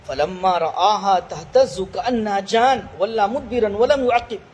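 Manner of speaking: slow, measured tajweed chant; drawn-out Quranic recitation. Acted. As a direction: recite the verse slowly and melodically. Quran verse recited in lesson.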